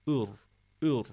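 "Ür" with a heavy rolled R; thick R. Shown as a demonstration. Teacher demonstrating ra after damma, thick "Ür". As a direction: darken and hold the R of "ür". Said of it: "ötre ise yine kalın okunur".

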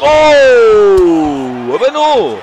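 loud, high cry of delight; excited shout. Real, not acted. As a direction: yell as he sees him wobble. Opponent staggered.

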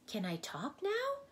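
put-on high, eager boyish question; happy cry. A narrator's reading. Milo thrilled to speak again, high and eager. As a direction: burst out with delight. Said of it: "cried Milo happily".

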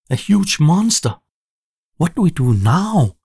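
high, loud cry of alarm. A narrator's reading. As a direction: panic at the sight of a monster. Robot sees a sea monster.

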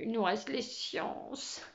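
léger gémissement traînant; étire les mots en geignant un peu; gémissant. Acted. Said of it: "gémit Luc". (plainte traînante, à peine appuyée)

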